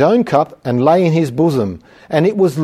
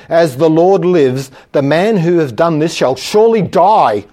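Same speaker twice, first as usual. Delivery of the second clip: furious king's vow; 3 semitones higher, 4 dB louder than usual. Retold or imitated. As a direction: pronounce the death sentence with weight. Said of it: "The word is furious".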